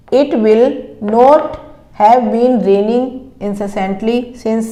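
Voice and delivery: slow, word-by-word dictation of English sentences. Shown as a demonstration. Teacher dictating sentences to students, slow and careful. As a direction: read each word out slowly so students can write it.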